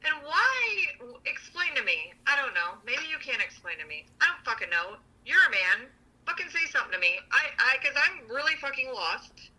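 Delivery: exasperated, pitch climbing high; frustrated outburst. Real, not acted. Venting to a friend about her partner, exasperated and high. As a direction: demand an answer, fed up.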